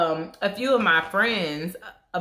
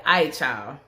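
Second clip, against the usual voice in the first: casual talk. Retold or imitated. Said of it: "and said".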